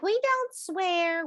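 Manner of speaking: high, slow prim voice; prim mock family. Psychic mocking a prim family that avoids swearing. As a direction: say it primly, very proper. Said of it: "a family that's like".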